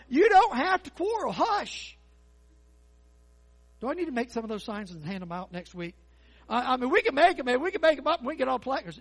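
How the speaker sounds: loud, high preaching, building and punching; fired-up sermon delivery; full-force preaching. Acted. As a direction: preach it out to the whole room.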